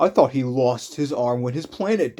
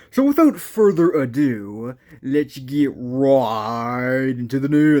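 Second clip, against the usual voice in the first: hammed-up intro; 4 dB louder, slower than usual. Hammed-up intro, then mocks it.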